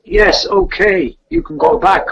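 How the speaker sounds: high, slow and airy woman's voice; lightly voiced wife, high and slow. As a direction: voice her high and drawn out, almost breathless. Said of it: "She goes".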